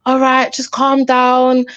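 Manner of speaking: drawn-out, condescending calming voice; slow, mildly patronising retold quote; passive-aggressive. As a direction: imitate someone patronisingly telling a man to settle. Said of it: "passive aggressive kind of".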